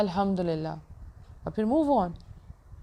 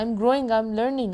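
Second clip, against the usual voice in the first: slow affirmation; 2 semitones higher, much slower than usual. Shown as a demonstration. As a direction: stretch each phrase out with conviction. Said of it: "اپنے آپ سے بولا".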